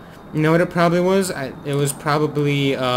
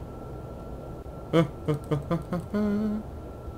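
soft chuckle; 3 semitones higher, 9 dB quieter than usual. Real, not acted. Laughs coming in too fast.

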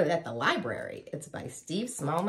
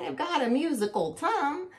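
warthog; 9 semitones higher than usual. A narrator's reading. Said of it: "Warthog said".

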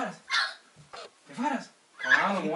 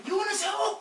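laughing mock yell, higher; demo yell; 12 semitones higher, slower than usual. Shown as a demonstration. Planner showing André's line, laughing mock yell. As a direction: yell it while half laughing. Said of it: "André".

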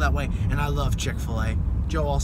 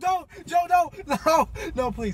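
mock pleading; 9 semitones higher, 3 dB louder than usual. Begging brother not to leave.

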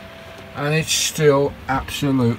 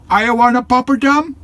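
voicing the dog; 12 semitones higher, 5 dB louder than usual. Voicing the dog's reply.

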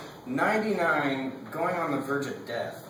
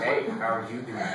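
put-on cranky old person; 4 semitones lower than usual. Old church person greeting him up close, cranky. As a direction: lower old-person impression. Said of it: "they always have the cranky voices".

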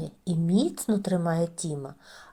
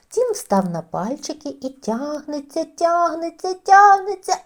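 straining building; 7 semitones higher, 5 dB louder than usual. A narrator's reading. Тягнеться до кастрюлі.

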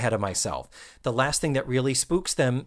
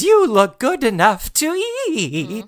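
creepy purr; 9 semitones higher, 5 dB louder than usual. Retold or imitated. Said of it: "Missus Garrett even says".

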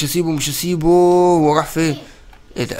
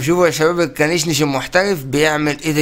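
usual speaking voice

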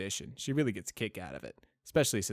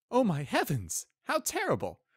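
much higher, hammed-up alarm; mock alarm; 13 semitones higher, 8 dB louder than usual. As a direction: fake gasping horror for a joke. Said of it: "managed a look of mock alarm".

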